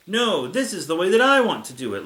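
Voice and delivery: lightly acted childish insistence; mild mock yell. A narrator's reading. Little Godzilla refuses Godzilla's advice, mock yell. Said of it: "little Godzilla yells".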